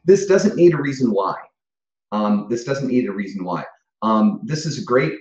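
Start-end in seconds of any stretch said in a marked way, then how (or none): 0.1-1.4 high, loud and laughing. Real, not acted. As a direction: blurt it out mid-laugh. Laughing through the joke.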